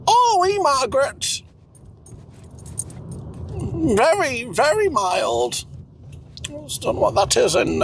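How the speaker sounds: Cecil, fussy would-be French speaker. Acted. Plays Cecil.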